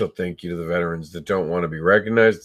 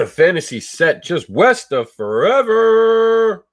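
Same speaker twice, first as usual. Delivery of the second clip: movie trailer voice; 12 semitones higher, 5 dB louder, slower than usual. Acted. Dramatic tagline after a coughing fit.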